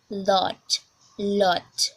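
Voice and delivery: British "lot", teacher's demo; demonstrated British "lot"; British accent. Shown as a demonstration. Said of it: "we are going to British English first".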